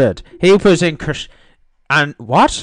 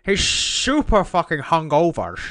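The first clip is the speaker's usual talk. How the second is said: Sean Connery; 5 dB quieter than usual. Pretend. Host ribbing hungover friend about concert, mock-Scottish accent. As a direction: savour it in a put-on Scottish accent. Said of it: "this is the last one I'll do it".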